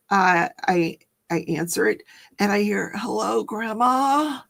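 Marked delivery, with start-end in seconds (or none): 2.9-4.4 imitating grandson. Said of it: "it sounds like my grandson".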